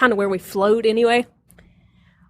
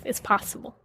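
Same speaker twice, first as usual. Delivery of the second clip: whispered; 9 dB quieter than usual. Real, not acted. Repeated affirmation, second take.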